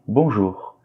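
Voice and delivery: "bonjour" with OU as one "oo" sound; prononciation modèle. Shown as a demonstration. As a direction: say "bonjour" clearly, OU as "oo". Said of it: "on le prononce par OU". (« bonjour » avec le son « ou » bien net)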